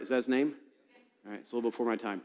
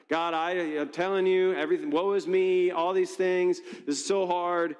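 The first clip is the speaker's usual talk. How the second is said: mock whiny complaint; 5 semitones higher than usual. Preacher mimicking Elijah complaining to God, mock whiny. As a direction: moan it like a sulking prophet, half mocking. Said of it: "He's saying all the same things".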